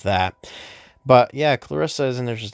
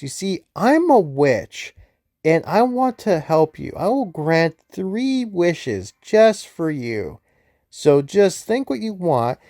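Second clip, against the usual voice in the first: higher, lightly voiced scheming witch; a hint of a witch's sing-song, higher throughout; witch's offer; 4 semitones higher than usual. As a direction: play a sly witch granting wishes. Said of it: "she's like".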